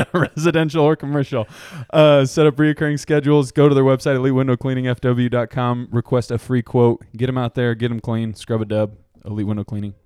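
steady sponsor-read delivery. Real, not acted. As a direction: pitch it like a podcast sponsor spot. Continues the sponsor spot.

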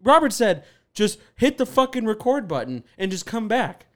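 high, loud soap-opera outrage; hammed-up rant. Host rants about his expensive gear, theatrical soap-opera rage. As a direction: overact the fury like a soap star. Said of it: "you're so much physicality right now".

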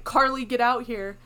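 loud mock call from the next room; retold mom yelling her out.

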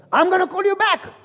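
busy husband cutting the call short; hurried brush-off. Retold or imitated. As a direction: brush her off fast, pitch up. Hurried reply to the wife.

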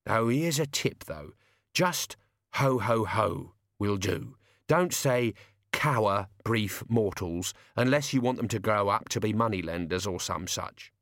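lightly voiced servant giving a tip; tactful servant. Servant coaching his master Death, tactful. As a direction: advise him carefully, trailing off at the end.

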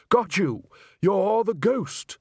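high, loud, slow gotcha; triumphant. Acted. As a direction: crow it like a winner. Triumphant accusation.

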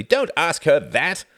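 loud, high jovial teasing; merry cry. A narrator's reading. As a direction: joke loudly and merrily at her expense. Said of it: "cried Reginald merrily".

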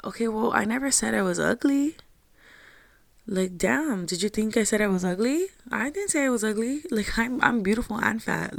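high-pitched, incredulous comeback; indignant retort. Retold or imitated. Answering friends who called her pretty, indignant. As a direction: push back in disbelief, pitch climbing.

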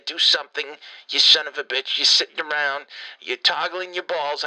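loud, angry yelling. Acted. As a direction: chew him out, loud. Yelling at Cliff on voicemail.

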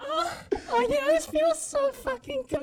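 high, loud porn moans; mock sexy moaning. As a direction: moan it up like a porn scene.

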